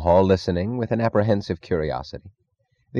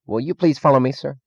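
shaky politeness; 7 semitones higher than usual. A narrator's reading. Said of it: "with shaky politeness".

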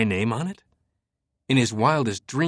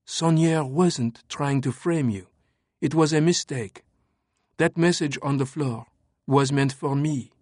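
higher, cool French woman; 4 semitones higher than usual. Acted. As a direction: calmly lay out the facts as her. Sophie voiced.

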